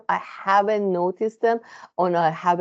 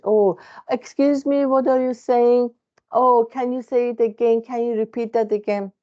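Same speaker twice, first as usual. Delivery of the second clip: higher-pitched imitation of puzzled listeners; mocked listeners; 5 semitones higher than usual. People questioning her second language, imitated in a higher voice. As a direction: mimic people asking for a repeat, pitched up. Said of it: "people who saying that".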